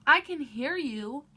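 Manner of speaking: loud, slow shout; hollered. A narrator's reading. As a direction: call it back loud and long. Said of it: "I hollered back at them".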